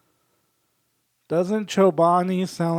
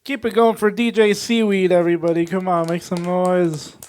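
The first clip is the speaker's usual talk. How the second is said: loud, high emcee shout, slowing on the last call; loud crowd hyping; 4 semitones higher, 9 dB louder than usual. Real, not acted. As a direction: whip up applause at full voice. Host hypes crowd for DJ.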